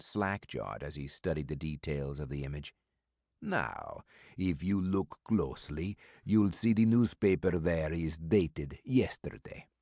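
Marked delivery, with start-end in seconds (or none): 3.4-9.7 put-on mysterious old stranger with an Eastern European accent, amused; calm and sly, a heavy foreign accent; stranger's accented voice. Old stranger brushing off Maddox's offer of a meal, in an Eastern European accent.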